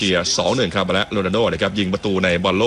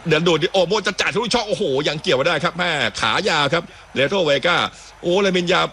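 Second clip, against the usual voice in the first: higher-pitched commentary as the attack builds; live play-by-play; 8 semitones higher than usual. Real, not acted. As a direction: call the through ball live, pitch lifted.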